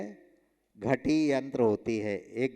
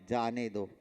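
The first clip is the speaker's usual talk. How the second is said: जाने दो set apart, lower and softer; jaane do apart; 4 semitones lower, 5 dB quieter than usual. Shown as a demonstration. Teacher finishing the let-him-go reading, jaane do apart. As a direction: drop down on जाने दो after the comma. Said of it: "अल्प विराम लगा दिया".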